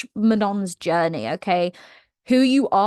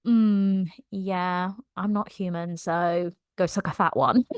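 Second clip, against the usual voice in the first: dismissive drawl; 2 semitones lower, 4 dB quieter than usual. Retold or imitated. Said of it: "Manon's like".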